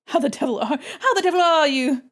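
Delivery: mock British accent, rising with a laugh. Streamer imitates a British greeting, mock British accent. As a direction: put on a British accent for fun. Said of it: "We're talking about accents".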